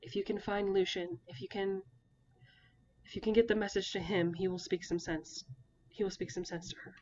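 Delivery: hoarse, worn-out father. Acted. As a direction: push the words out hoarse. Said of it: "a hoarse voice".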